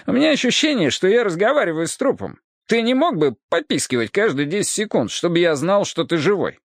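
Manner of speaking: mock his silence; sarcastic cop voice. Hardwick sarcastic. (язвительно, с издёвкой)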